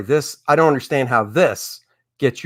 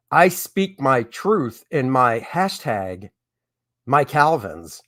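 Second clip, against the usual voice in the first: slow, drawn-out mock of the slogan; sarcastic, slow slogan read; 2 semitones lower, slower than usual. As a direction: read the slogan slowly, as if it were ridiculous. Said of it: "What in the absolute F is this".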